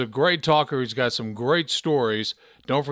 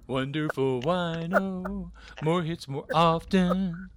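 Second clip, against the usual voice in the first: radio DJ voice; slower than usual. Shown as a demonstration. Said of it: "radio voice".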